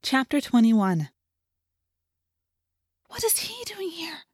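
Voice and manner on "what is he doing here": hushed and scared, breath held; frightened whisper. A narrator's reading. Cassie asking in the cave, frightened whisper. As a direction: whisper it as if the enemy might hear. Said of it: "in a low, frightened whisper".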